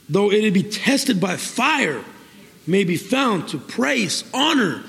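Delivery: slow, deliberate rereading of a verse; measured Bible reading to a congregation; scripture reading. Real, not acted. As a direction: draw out each phrase of the verse.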